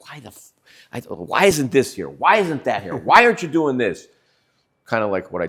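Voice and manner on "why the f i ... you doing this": loud, high-pitched screaming rant. Retelling yelling at everyone in the construction trailer: imitating own past screaming. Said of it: "I'm screaming at everybody".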